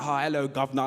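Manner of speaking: mock British accent, hammed-up Cockney greeting; bad British accent. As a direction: play an American doing a clumsy British accent. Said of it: "I can put on a pretty good British accent".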